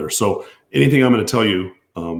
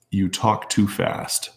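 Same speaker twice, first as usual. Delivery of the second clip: slowly spaced-out words; slow, measured read-out of a complaint; deliberately slow; much slower than usual. Real, not acted. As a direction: read it out at half speed. Reads complaint about fast talk slowly.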